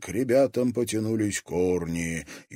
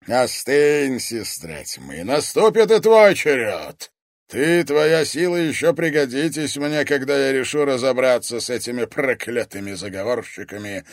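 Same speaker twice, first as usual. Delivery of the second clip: oracle of worms; 4 semitones higher, 7 dB louder than usual. Acted. Oracle justifying himself to his daughter, weighty and cold. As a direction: speak as a cold, unrepentant father.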